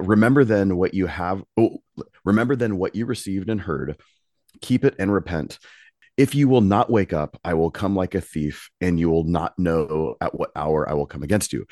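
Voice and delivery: slow, measured reading of "Remember then what you have"; scripture reading. Shown as a demonstration. Co-host reading the ESV aloud, slow and measured. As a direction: read the verse slowly and evenly. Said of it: "so it says".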